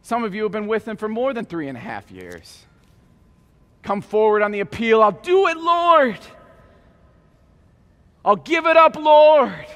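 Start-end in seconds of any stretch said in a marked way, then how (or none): 5.0-9.7 high, loud earnest promise; fervent pledge. Acted. Church member answering the appeal to the Lord, high fervent. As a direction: commit with eager conviction.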